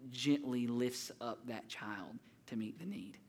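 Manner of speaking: slowing down and softening into a hush; slow tender hush. Real, not acted. Preacher describing his wife lifting the baby, tender hush. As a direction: let it fall to a tender whisper.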